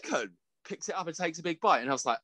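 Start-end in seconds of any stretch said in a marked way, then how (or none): 0.0-0.4 food guy voice. Retold or imitated. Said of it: "he's like".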